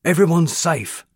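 high, loud triumphant shout; fireman's cry. A narrator's reading. Fireman announcing to the crowd at the fire, loud high shout. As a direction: call out the good news over the crowd. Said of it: "cried a fireman".

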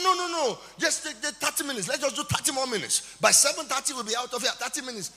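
imitating coaxing lecturer. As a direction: mimic the lecturer bargaining eagerly. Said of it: "He said".

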